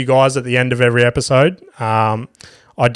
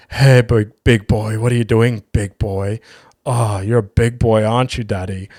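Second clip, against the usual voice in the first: camp flirty voice. Retold or imitated. Teasing his mate by voice note, a mock seductive coo. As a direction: lay on the flirt like a parody come-on. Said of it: "the most fucking homo voice recording".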